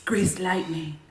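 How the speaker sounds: breathy hushed whisper of the title; low unvoiced whisper. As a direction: whisper it like a secret. Teasing whisper of song title.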